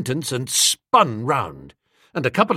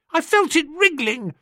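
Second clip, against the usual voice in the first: put-on much higher, boyish pleading; whining choirboy; 12 semitones higher than usual. A narrator's reading. Choirboy excusing himself to the vicar, high whine. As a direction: plead like a caught small boy.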